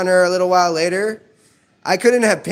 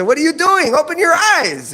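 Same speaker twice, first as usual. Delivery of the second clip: high, raised alarmed plea; urgent and rattled, pitched up; 10 semitones higher than usual. Retold or imitated. Son alarmed by mom who won't open eyes.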